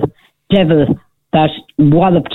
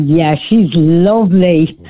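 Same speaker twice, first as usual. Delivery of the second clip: sarcastic; much slower than usual. Retold or imitated. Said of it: "I love your sarcasm".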